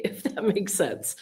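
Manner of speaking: said through a light laugh; amused, sheepish tag line. Real, not acted. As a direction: laugh at her own coy hint. Laughs after admitting coded talk.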